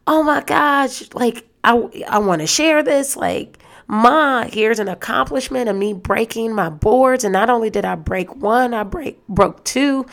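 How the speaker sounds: hint of a thrilled boy showing off; excited kid. Son showing mom his broken boards, mildly excited. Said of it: "comes over all excited".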